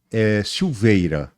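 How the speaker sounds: resposta irônica, arrastada; irônico. Retold or imitated. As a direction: responda devagar, com ironia leve. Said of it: "Assim, bem irônico". (ironia contida, sem pressa)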